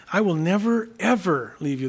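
emphatic "never, ever", easing off on "leave you"; strong emphasis. Shown as a demonstration. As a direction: lean on "never, ever" in the promise. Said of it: "a strong emphasis on that promise".

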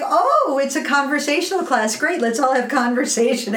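a hint of a naive young woman gushing; naive sweet girl. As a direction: chirp it eagerly like a proper, innocent student. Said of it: "she's like".

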